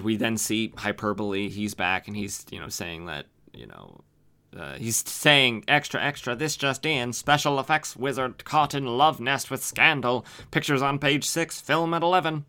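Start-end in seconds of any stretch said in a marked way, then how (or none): 5.7-12.4 higher-pitched mock headline announcer; imitated news crier. Robot announcing the scandal over town, imitated news crier. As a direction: call out the headlines like a newsboy.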